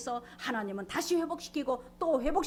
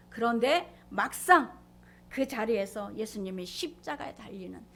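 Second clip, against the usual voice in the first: ordinary talk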